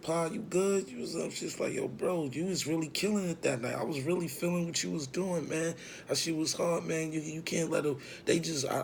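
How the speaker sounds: imitated woman, high and encouraging; Angie. Acting Angie praising him.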